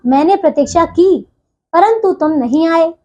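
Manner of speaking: short pause after की, before परंतु; short comma pause. Shown as a demonstration. Teacher reads a comma example, brief pause after की. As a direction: break briefly between की and परंतु. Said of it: "इन तीनों वाक्यों में हम थोड़ी, थोड़े समय के लिए बीच में रुक रहे हैं".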